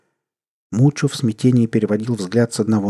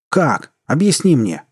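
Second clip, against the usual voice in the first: louder, higher anguished shout; крик; 6 semitones higher, 4 dB louder, slower than usual. A narrator's reading. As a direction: yell it at your father in frustration. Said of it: "закричал парень". (громкий отчаянный крик)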